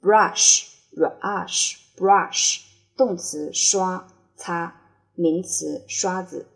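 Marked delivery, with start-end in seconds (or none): 0.0-2.6 slow, drawn-out model reading; slow drill. Shown as a demonstration. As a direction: stretch each word out for the class. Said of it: "teacher drills word slowly". (放慢语速领读)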